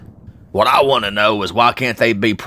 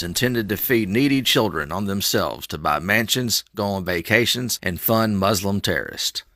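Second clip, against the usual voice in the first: parody news anchor; 4 dB quieter than usual. Acted. Reads a mock news report.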